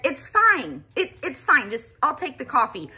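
high, strained repeated it's fine; forced calm. Retold or imitated. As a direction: swallow your anger and chirp it's fine. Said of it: "I've said".

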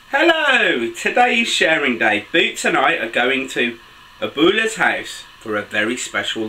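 put-on lively read-aloud for young children; picture-book narration. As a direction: tell it brightly to little listeners, pitch swooping on exclamations.

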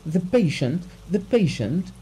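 high-pitched, stunned repetition; incredulous cry. A narrator's reading. Betrayed husband answering the doctor's question, crying out. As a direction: throw the word back, pitched high. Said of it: "cried Abugin".

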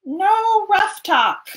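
high, loud, slow scold. Acted. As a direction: scold it sternly. Scolding the jay.

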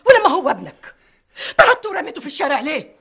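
tearful accusation. Acted. Mother accuses father, crying.

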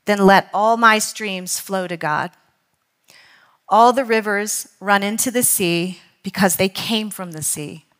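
measured, deliberate quotation reading; slow read-aloud, letting each phrase land. Real, not acted. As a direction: read it slowly, pausing between phrases. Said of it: "I'm gonna read it slowly".

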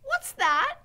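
high, loud shouted question; Mig's shout. A narrator's reading. Mig to Gregory, hard of hearing, high shout. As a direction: ask it at a shout. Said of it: "shouted Mig".

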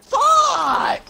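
high furious shout; panicking gamer. Real, not acted. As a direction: blurt it out in rage. Raging at game.

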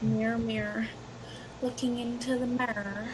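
"mirror" mocked as one-syllable "meer"; mimicked unfinished word. Mocking American friend's "mirror", mimicked unfinished pronunciation. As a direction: tease with "mirror" cut down to "mirr". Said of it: "you just say mirror".

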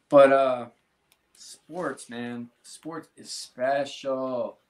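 slow, halting words, fighting tears; emotional, choked up. Real, not acted. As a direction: pull yourself together mid-sentence. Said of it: "excuse me for getting emotional".

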